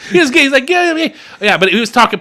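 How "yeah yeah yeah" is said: much higher, botched Boston imitation; attempted Boston accent. Podcaster imitating the pool guy, botched Boston accent. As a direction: badly fake an excited Boston local. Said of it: "I can't do it".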